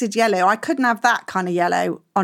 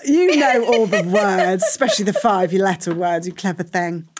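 teasing laugh; 3 semitones lower than usual. Real, not acted. Co-host teasing back, laughing.

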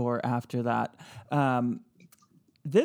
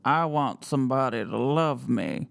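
ghost voice reading; 2 semitones lower than usual. Shown as a demonstration. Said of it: "Is it C".

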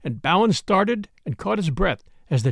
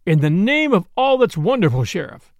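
mildly exasperated bafflement; a touch of bewildered protest; 4 dB louder than usual. Acted. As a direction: exclaim it in puzzled disbelief. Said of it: "said the bewildered governor".

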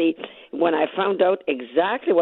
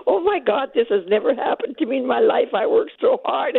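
mild retold panic, pitched higher; retold tearful panic; 5 semitones higher than usual. Winner overwhelmed on hearing of her prize, mildly acted panic. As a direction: relive the overwhelmed cry, only lightly acted. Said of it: "started to cry and yell and panicked".

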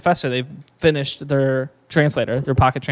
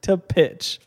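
laughing; 8 semitones higher, 5 dB quieter than usual. Pretend. Jokey retake of pitch line.

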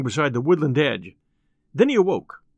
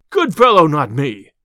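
indignant retort; 7 dB louder than usual. Acted. Landlord refuses the tinker who cannot pay, indignant retort. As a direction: throw the friendly name back at him.

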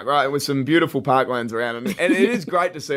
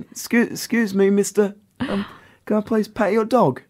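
put-on higher-pitched little boy in a British accent; 4 semitones higher than usual. Young lad asks to pet the dog, UK accent. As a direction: imitate a polite kid with a UK accent. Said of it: "I don't know why I did that in a".

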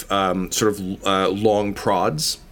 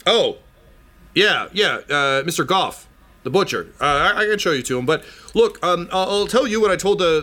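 a higher, defensive farmer making excuses; 4 semitones higher than usual. Acted. Farmer telling the princess the herd will be ready soon, high and defensive. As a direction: talk fast and cover for the delays.

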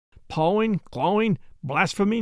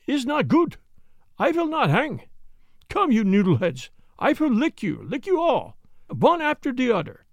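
put-on higher, defiant German-accented threats; 3 semitones higher than usual. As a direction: Jan threatens to fight them all, in a German accent. Jan defies them before hanging.

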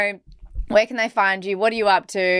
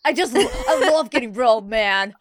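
put-on American Valley Girl voice. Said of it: "this is the voice that I do a lot".

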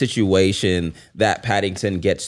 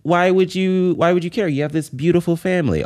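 higher, lightly acted optimism; optimistic Paddington; 6 semitones higher than usual. Character consoling someone over a lost job, lightly voiced optimism. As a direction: cheer them up in a raised pitch. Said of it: "vocalizes it through optimism".

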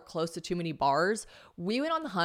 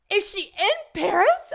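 very high, loud, drawn-out question; mock astonished followers; 8 dB louder, slower than usual. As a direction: imitate fans squealing in disbelief. Voicing followers' excited question.

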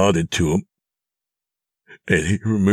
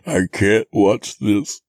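higher, broken acted cry; sobbing; 6 semitones higher, 3 dB louder than usual. A narrator's reading. Narrator overwhelmed by the captor's demand, sobbing. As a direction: sob the refusal out. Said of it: "I sobbed".

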